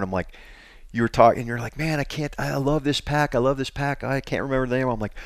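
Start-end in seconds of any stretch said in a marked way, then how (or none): 1.8-4.9 mock exasperated friend, pitched up; W-like frustrated mimic. Friend retells forgetting a pack's name, mock exasperated. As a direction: imitate someone straining to remember.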